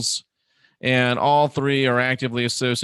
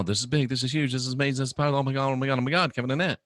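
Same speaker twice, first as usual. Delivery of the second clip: lightly voiced breathless fan, a little softer; mock hyped viewer; 4 dB quieter, much faster than usual. Mimicking viewers begging him to get Kevin Annett on, softly hyped. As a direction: rattle off the hype as a parody. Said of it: "I hear it ten times every day".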